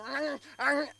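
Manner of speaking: high mock gnawing noise; imitated bag-biting. Imitating a man biting a plastic bag, feral gnawing noise. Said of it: "he was biting the plastic bag".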